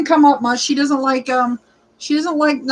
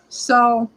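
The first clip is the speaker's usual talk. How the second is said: imitated breathless gasp; 3 semitones lower than usual. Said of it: "I'll be like".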